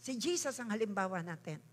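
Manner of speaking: ordinary talk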